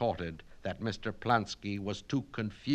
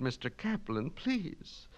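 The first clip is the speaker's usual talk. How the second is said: pleading; 7 semitones higher than usual. Acted. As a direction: gently beg him to stop.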